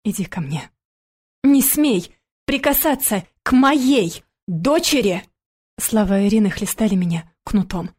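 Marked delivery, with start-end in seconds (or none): 0.0-0.7 lower, soft tender invitation; soft low tender words; soft tender call. A narrator's reading. Nanny softly calls crying girl. 1.4-5.2 high, slow furious warning; high slow angry command; furious order. A narrator's reading. Ex-wife forbids touching daughter.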